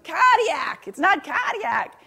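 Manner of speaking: mock Boston bellow, high and loud; booming Boston accent. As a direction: imitate a bombastic Boston cardiologist heard across the room. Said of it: "You hear the across the room".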